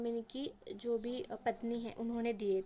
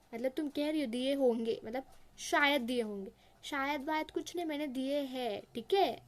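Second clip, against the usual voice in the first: stern voice. Acted. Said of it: "Julia को एकदम कड़क स्वर में".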